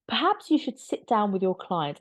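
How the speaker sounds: condescending lawyerly reply; patronizing. Retold or imitated. Backgrid lawyer talking down to the royals' lawyers, patronizing. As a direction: talk down to the other lawyer. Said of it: "it's so patronizing".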